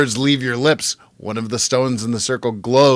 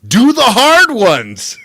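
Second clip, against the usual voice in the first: higher, louder and slow; stern mentor demanding more; urging command; 10 semitones higher, 6 dB louder, slower than usual. A narrator's reading. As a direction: lean on each word to push. Emil urging the reader on.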